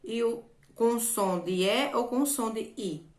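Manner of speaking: ordinary delivery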